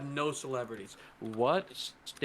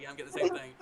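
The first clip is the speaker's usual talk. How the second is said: quoted brother; much faster than usual. Retold or imitated. Brother answering staff.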